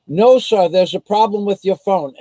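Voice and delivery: lightly voiced brush-off from the agent; mock agent. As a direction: dismiss the caller like the agent did. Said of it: "and she goes".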